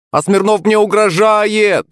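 high, slow tattletale shout. A narrator's reading. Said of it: "крикнул Демидов".

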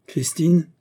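king addressing a subject; commanding tone. A narrator's reading. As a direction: call the name with authority. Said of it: "le ton du commandement".

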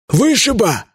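громкий окрик атамана; гаркни, подзывая; гаркнуть. Acted. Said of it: "гаркнул он". (гаркая)

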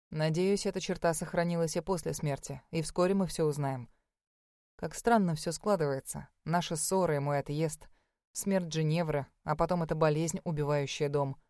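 a hint of a brooding husband; calm husband voice. Aiden voiced low.

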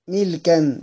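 ملكا said milkan, meem with i; ملكا pronounced milkan; kasra on the meem. Shown as a demonstration. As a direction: say ملكا with a kasra: mil-kan. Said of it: "بكسر الميم".

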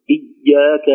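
إياك with the y pressed too hard; over-hardened doubled ya. Shown as a demonstration. Teacher showing the mistake, إياك with excessive shadda. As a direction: overdo the tension on the y of إياك. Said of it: "شدة".

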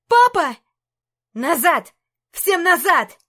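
high, loud panicked cry; frightened scream. Acted. Princess screams at the guards to save her father, panicked.

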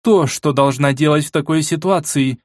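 icy voice. Acted. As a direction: speak as if the voice turned to ice. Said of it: "голос Фредерики оледенел".

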